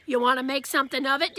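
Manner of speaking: little kid playing tough guy; a six-year-old puffing up to sound tough; mild mock tough guy challenge. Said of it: "in his best tough guy voice".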